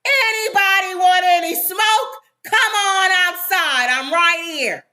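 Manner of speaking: drawn-out, hammed-up taunt; mock yell. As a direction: imitate a guy calling out for a fight. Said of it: "goes outside and yells up".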